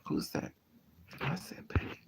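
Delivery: whispered correction. Real, not acted. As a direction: breathe it as a whisper. Whispered unvoiced.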